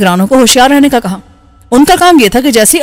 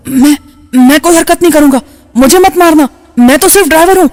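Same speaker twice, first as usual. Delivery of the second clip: trembling voice; 4 semitones higher than usual. A narrator's reading. Old driver begging the gunmen to spare him, trembling. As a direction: quaver out a frightened plea. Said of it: "اس نے لرزتی آواز میں کہا".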